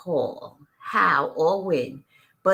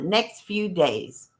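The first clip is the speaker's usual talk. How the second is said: slowed down; slower than usual. Real, not acted. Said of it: "Twenty dollars was enough for them".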